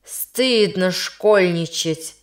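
медленно, строгим учительским тоном; выговор от учителя; строго. Acted. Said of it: "произнёс он строго". (строго отчитывает)

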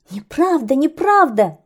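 high, frightened protest; frightened birds. Acted. Scared birds protest to the angry kite, high and shaky. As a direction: squeak it out in fear. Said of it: "испугались птицы".

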